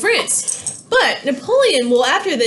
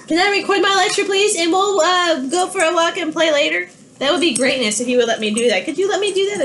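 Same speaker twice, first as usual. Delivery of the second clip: higher, wheedling request; pleading with dogs; 4 semitones higher than usual. Real, not acted. Teacher pleads with her dogs to let her record.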